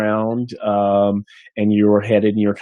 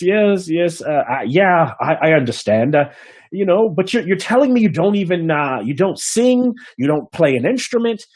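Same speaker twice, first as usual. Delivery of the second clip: higher, skeptical innkeeper; doubtful innkeeper; 6 semitones higher than usual. Acted. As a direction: question the bard's skills. Innkeeper questioning the bard.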